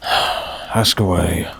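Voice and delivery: slow, sighed ask away; grudging resigned permission. Acted. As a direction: give in with a tired sigh. Sighs then grants questions.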